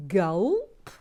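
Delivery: booming welcome; loud gulp. Real, not acted. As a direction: announce it with a boom. Excited greeting of new member.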